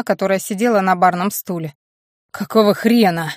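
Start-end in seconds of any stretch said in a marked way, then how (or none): none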